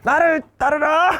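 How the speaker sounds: high, drawn-out commanding shout; loud rallying cry. Shown as a demonstration. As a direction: bellow it out slowly like leading a charge. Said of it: "존나 크게 한번 외쳐줘". (크게 길게 외치기)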